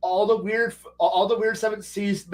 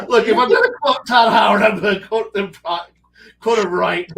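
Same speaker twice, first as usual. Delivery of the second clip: loud laughing protest; 3 semitones higher, 7 dB louder than usual. Real, not acted. Laughing, insisting over the others.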